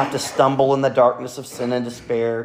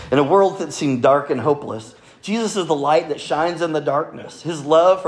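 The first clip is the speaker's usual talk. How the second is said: lightly hammed-up hero, pitched higher; a touch of epic hero, raised and emphatic; 4 semitones higher, 4 dB louder than usual. Shown as a demonstration. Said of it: "in my hero voice".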